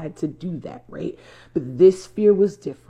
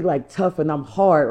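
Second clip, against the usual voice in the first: normal talking voice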